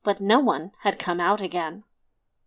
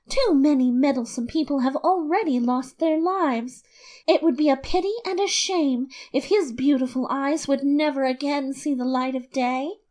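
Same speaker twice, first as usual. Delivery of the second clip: a hint of a worried woman, higher; lightly voiced wife; 4 semitones higher than usual. Innkeeper's wife warning about the castle, lightly voiced. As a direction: warn gently in her voice.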